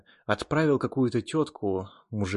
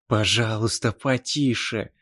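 usual speaking voice

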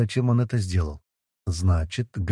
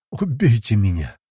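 a weary half-groan, voice a little strained; groaned plea; 3 dB louder than usual. A narrator's reading. Hero begs to be killed while idiots chatter, groaning. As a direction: moan it like you can't bear another word. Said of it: "простонал я".

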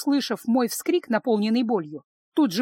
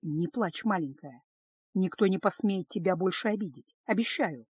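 put-on softer and lower, soothing the child; quiet comfort; 3 semitones lower, 5 dB quieter than usual. Father comforting his crying daughter, soft and low. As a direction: hush it gently to a crying girl. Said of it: "тихо сказал".

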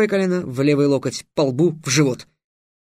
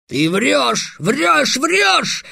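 each "врёшь" higher and higher, a shrill rising scream; 9 semitones higher, much slower than usual. Acted. Alkhazab screams at Trix that he is lying, climbing in pitch. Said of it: "закричал Алхазаб".

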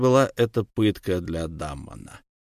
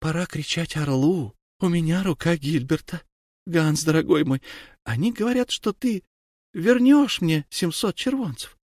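tender; 6 semitones higher than usual. A narrator's reading. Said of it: "нежно сказала".

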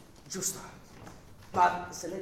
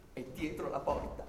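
slow, hushed reveal of the eavesdropper; sottovoce, misterioso; 3 semitones lower, 7 dB quieter, slower than usual. Acted. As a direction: drop the voice low and slow, like a secret. Rivela la spia, a voce bassa. (rivelazione lenta e sommessa)

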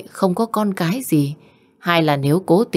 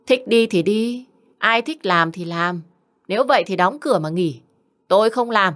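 higher-pitched, quick sulky outburst; wife snapping at her husband, higher and quick; huffy retort; 4 semitones higher than usual. Acted. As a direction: throw it back at him in a huff. Mother-in-law storming back at husband.

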